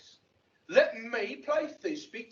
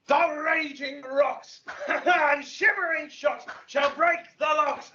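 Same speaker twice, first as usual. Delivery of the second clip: lofty ranting; 2 semitones higher than usual. Acted. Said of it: "This was lofty".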